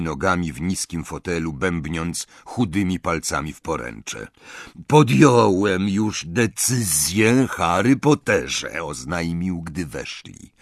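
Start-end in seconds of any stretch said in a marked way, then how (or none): 4.9-8.8 slow, deliberate goblin voice. Acted. Griphook tells Harry his decision, slow goblin voice. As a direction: weigh each word like a goblin.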